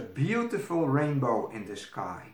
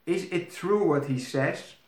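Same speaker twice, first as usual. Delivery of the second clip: put-on higher, eager young princess; curious princess; 5 semitones higher, 3 dB louder than usual. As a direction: princess asking hopefully. Princess asks the maid.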